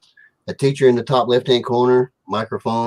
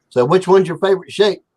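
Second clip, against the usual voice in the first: teacher voice; 7 semitones higher, 4 dB louder than usual. Retold or imitated. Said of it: "the teacher comes into".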